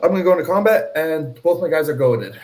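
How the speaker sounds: pumped-up announcement; excited. Real, not acted. Hyped combat announcement.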